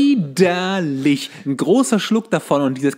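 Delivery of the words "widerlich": drawn-out, slow, louder disgust. Real, not acted. Recalling the vile drink, slow disgusted groan. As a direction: stretch it out, really revolted.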